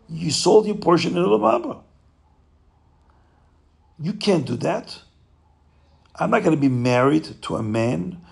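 a touch of anger, scold the husband; understated indignant wife; angry wife. Acted. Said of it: "She became very angry".

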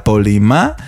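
The name with the final A stressed, drawn out slowly. Shown as a demonstration. Host spelling out the artist's name, final A stressed. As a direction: lean slowly on the last A of the name. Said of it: "con acento en la A".

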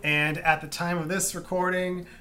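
infomercial. Acted. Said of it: "it sounded like a fucking infomercial".

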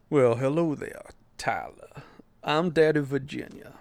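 lightly voiced smooth sultry character. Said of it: "to bless this podcast with my sweet, sultry voice".

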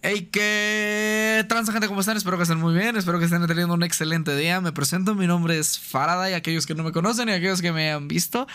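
streamer intro. Acted.

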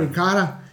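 ricotta the Italian way, stress on KO. Shown as a demonstration. Friends mocking his ricotta, Italian pronunciation ricotta. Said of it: "la pronunciación ricotta".

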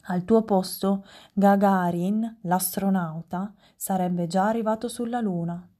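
rimprovero del marchese, un po' alzato; protesta stizzita. Acted. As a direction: lamenta il ritardo, leggero tono stizzito. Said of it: "le proteste del marchese Venanzio". (il marchese rimprovera Romoletto del ritardo, stizzito moderato)

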